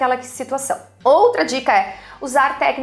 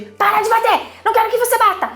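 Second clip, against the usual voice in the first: much higher, sharp scolding mother yell; 11 semitones higher, faster than usual. Shown as a demonstration. Mother showing the wrong way, yelling at her child. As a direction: play the exasperated parent shouting at the child. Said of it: "sem ser um tom de voz brigando".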